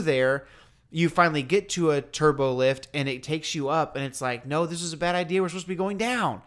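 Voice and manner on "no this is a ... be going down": mock protest. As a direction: pitch climbing into a rushed complaint. Acted protest on the lift.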